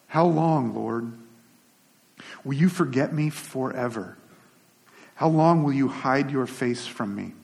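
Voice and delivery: measured, slow reading of the psalm; scripture reading. Shown as a demonstration. Preacher reading a psalm aloud, measured and slow. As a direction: read the psalm aloud to the congregation. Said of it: "verse one, it says this".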